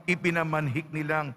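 measured scripture reading with deliberate pauses; Gospel reading. Acted. Priest proclaims the Gospel to the congregation, measured liturgical reading. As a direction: read the Gospel aloud to the congregation, phrase by phrase.

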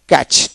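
"ক্যাচ" with no T sound before the CH; "ক্যাচ" ending straight on a CH sound; silent T. Shown as a demonstration. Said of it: "টি এর উচ্চারণ হবে না".

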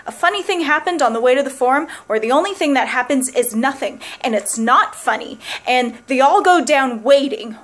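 building comic rant. Acted. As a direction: pile it on with mounting glee. Escalating fantasy of musicals ending.

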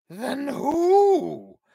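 high, loud demand. A narrator's reading. King demanding who the killer is, loud and high. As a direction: insist on an answer now. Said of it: "demanded the king".

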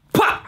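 short, punchy mouth-made burst; spoken transition effect; abrupt "pah" pop. Pretend. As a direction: pop it out like a jump cut.

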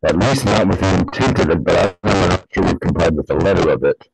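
muffled behind a face mask; words muffled by a mask; talking through a mask. Real, not acted. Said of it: "I'm talking now through a, a mask".

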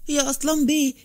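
urgent call for the master; eager call. A narrator's reading. Servant rushing to wake his master, eager call. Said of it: "وقال بلهفة".

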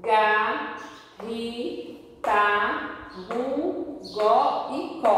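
"Ga, ri, ta, ru, go e co" one by one; spaced, dictated syllables "Ga, ri, ta, ru, go e co"; syllable reading. Shown as a demonstration. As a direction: read each syllable of "Ga, ri, ta, ru, go e co" separately. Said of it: "Vamos ler".

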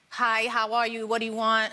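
put-on a light Bronx accent, young and casual; showing the host her old Bronx accent; Bronx accent demo. Shown as a demonstration. Bronx accent as a teen, shown to the host. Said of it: "I talked like this".

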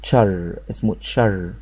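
"تشر" as one syllable, ch plus held r; one blended syllable. Shown as a demonstration. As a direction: model "تشر" with a falling tune. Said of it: "بتنطق مع بعض نطق واحد اسمه".

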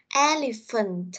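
Elephant slowed, stress on EL; word-stress model. Shown as a demonstration. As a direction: draw out Elephant slowly, leaning on EL. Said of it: "gọi là cái dấu đánh trọng âm". (đọc chậm Elephant, nhấn âm đầu)

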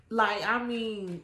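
ordinary talk

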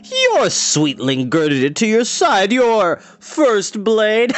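slow, drawn-out, high-pitched taunt; mocking Dorath. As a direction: sneer it out as the scornful villain, stretching the words.

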